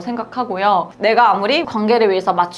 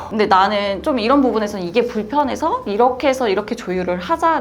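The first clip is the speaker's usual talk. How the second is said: calm and composed. Shown as a demonstration. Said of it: "느낌으로 차분하게, 침착하게".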